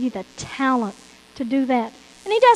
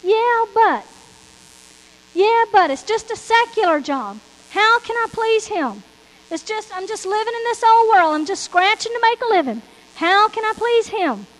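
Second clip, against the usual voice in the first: a higher, pleading voice for the worker with a secular job; doubting worker; 5 semitones higher, 4 dB louder than usual. Retold or imitated. Preacher voicing a churchgoer who doubts his work pleases God, higher and pleading. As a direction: voice the doubter, a little whiny and helpless. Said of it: "You say".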